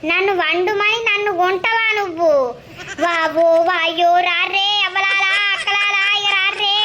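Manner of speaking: lightly voiced granny crying out for the neighbours; a hint of an old woman raising the alarm; mock wailing call for help, old woman; outraged old woman.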